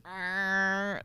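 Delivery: buzzy droning arr; imitated arr noise. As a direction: imitate the plug-in's arr sound. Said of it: "it makes this arr sound".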